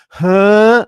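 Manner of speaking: high, loud baffled greenhorn huh; confused huh. Retold or imitated. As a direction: imitate the confused newcomer. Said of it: "And he'd go".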